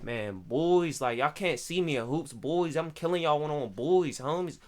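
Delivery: low, soft trash talk; Wilkinsburg local. Acted. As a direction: play a local boasting at hoops, kept low. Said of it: "They'll be like".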